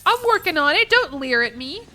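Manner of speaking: high, loud defensive whine; high defensive protest. Real, not acted. Defending to chat.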